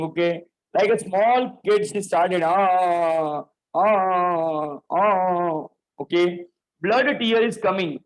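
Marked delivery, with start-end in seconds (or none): 2.4-5.7 mock little-kid crying wails; childish crying wails. Teacher acting tiny RAM, mock-crying like a small kid. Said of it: "she started crying like anything".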